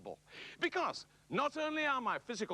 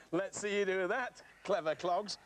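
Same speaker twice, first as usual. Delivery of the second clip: laughing. Real, not acted. Laughing taunt.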